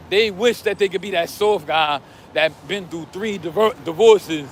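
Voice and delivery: hoarse, voice cracking; losing his voice, hoarse. Real, not acted. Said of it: "Damn, I can't even talk".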